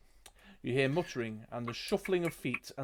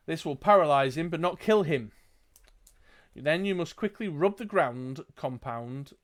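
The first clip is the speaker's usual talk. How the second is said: lightly voiced calm old wizard; a hint of a tired old sage, unhurried; a touch of an old hermit explaining. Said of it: "starts to speak in a calm voice".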